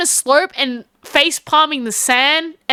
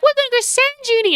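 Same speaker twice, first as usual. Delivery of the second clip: eager announcement; 10 semitones higher, much faster than usual. Retold or imitated. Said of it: "So you can imagine being like".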